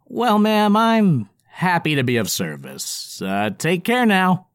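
slow, awkward courteous goblin; bow out politely as a goblin. Acted. Goblin character voice.

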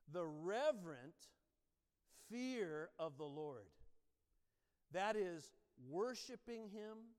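slow, measured reading of a verse; scripture reading. Acted. Pastor reads the Amplified proverb to the congregation, slow and reverent. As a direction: read it aloud with reverence, each phrase weighed.

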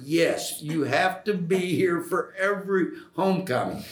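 playfully firm retold reply; retold emphatic insistence. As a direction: insist on it, voice lifted. Acting out the insistent answer.

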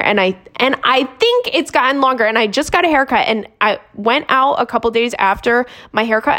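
upbeat podcast sponsor read. Acted. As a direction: sell it like a host-read ad. Host reads sponsor ad.

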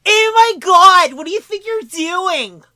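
put-on high, eerie girly ghost voice; glitchy giggling ghost whisper. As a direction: echo it back as a spooky girl spirit. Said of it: "That's not bad".

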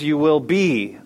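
"be" picked out and leaned on; stress on BE. Shown as a demonstration. Preacher points congregation to the verse's wording, stress on "be". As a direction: put the weight on "be". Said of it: "Notice this is".

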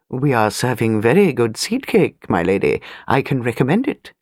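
put-on a courtly old butler, smooth and polite. Butler voiced.

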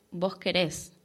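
querés stressed on the final E. Shown as a demonstration. Teacher showing students the Argentine verb stress. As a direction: hit the last syllable of querés. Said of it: "con tilde en la E".

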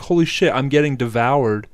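loud, panicked frog cry; mock terror. Comedian voices the terrified frogs in a loud mock panic. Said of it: "They're like".

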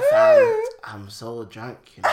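laughing impression of a slurring drunk; drunk friend imitation. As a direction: put on your drunk mate's voice. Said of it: "Wait, Paul. ... The Voice".

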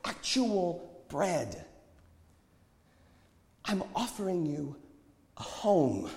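high, slow, weighty preaching; fervent prophet. A narrator's reading. Prophet offers the older ones true food, fervent.

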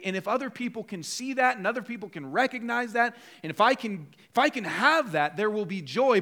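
a worker dreaming of recognition; hopeful inner monologue. Pretend. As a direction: build the hope like you're convincing yourself. Voicing a worker's hopes.

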